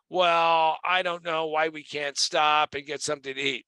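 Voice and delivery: mock a whiner's grumble; imitating a whining passenger. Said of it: "and he is whining".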